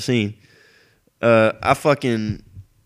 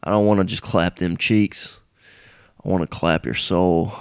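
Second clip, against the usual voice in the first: lower, put-on bro voice mocking a dating ad; mocking douchey guy; 3 semitones lower than usual. Vlogger mocking an eHarmony ad guy, in a put-on smug voice. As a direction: ham up the smug sincere ad guy. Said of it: "He's like".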